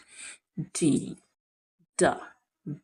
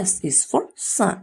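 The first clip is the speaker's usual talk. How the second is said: slow drill; 3 dB quieter, much slower than usual. Shown as a demonstration. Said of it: "slow teaching drill".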